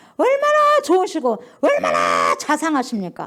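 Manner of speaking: slow, loud, joyful, excited exclamation.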